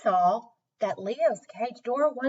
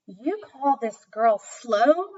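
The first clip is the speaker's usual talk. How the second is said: surprised question; 3 semitones higher, 4 dB louder, slower than usual. Acted. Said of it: "Mister Walden asked".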